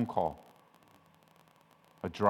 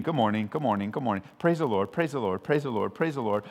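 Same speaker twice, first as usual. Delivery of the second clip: rote greeting. Retold or imitated. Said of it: "it's kinda like a greeting".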